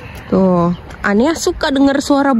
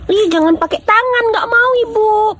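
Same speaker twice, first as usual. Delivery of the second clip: mock crying; 8 semitones higher than usual. Mother fake-cries about mud.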